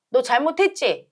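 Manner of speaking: mild scolding demo. Shown as a demonstration. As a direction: press the child a little harder, slowly. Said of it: "좀 언성이 높아져".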